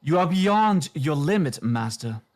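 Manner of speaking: a lightly voiced, lively and smooth centaur lady. Centaur lady puppet telling the master he has gone too far, lively and smooth. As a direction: deliver the verdict smoothly, with life. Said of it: "rather lively, um, smooth voice".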